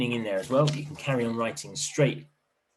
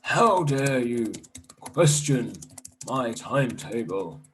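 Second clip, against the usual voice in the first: angry teacher; 2 semitones higher, 3 dB louder, slower than usual. Acted. Mean teacher's angry reply.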